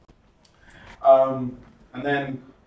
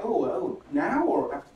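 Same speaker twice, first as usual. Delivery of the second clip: mock confused audience; 5 semitones higher than usual. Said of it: "everyone's kind of like".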